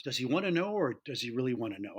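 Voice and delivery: lightly imitated secretive boss, dropping low; Fritz. Boss sounds out his salesman about a kid's question, mock secretive. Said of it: "Fritz was always very secretive".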